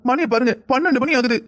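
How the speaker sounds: mildly tearful, upset wife; understated tearful complaint to a late husband; tearful reproach. Acted. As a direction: scold him with a touch of crying. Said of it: "எதுக்கு அழுகுற நீ?".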